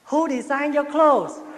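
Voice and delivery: loud, high, drawn-out English question; slow, mock-amazed question; admiring American. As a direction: imitate a big, impressed American fan. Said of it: "Có anh to đó, anh tới, anh bắt tay".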